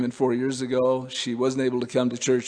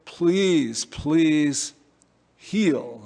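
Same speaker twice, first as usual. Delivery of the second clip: pleading prayer; 3 semitones higher, much slower than usual. Acted. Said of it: "No, we say".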